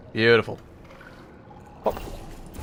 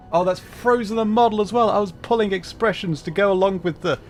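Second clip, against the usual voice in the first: flustered exclamation; 8 semitones higher, 5 dB louder than usual. Real, not acted. App freezes mid-joke.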